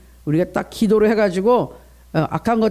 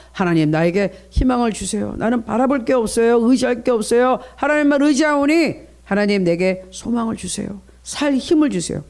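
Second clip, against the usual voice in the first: sample pleading prayer. Shown as a demonstration. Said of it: "이렇게 기도하시라 이 말이에요".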